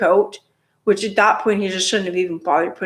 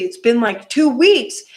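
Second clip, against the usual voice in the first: TWO WEEKS pitched up in protest; exasperated emphasis; 3 semitones higher than usual. Retold or imitated. Protests that the wait is too long.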